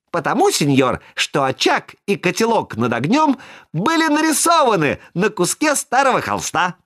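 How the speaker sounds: put-on high, eager little boy's voice; high puppet voice. A narrator's reading. Buratino explains to Karabas about the painted hearth.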